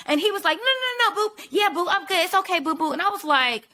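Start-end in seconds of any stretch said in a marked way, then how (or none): 0.6-2.9 high, sugary mock boyfriend voice; high mock "no, no, boo" sweet talk; mocking sweet-talking date. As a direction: coo it like a smitten date. Mimicking date's sweet reassurance.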